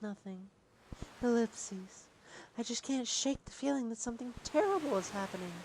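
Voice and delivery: soft princess voice. Acted. Voicing princess softly.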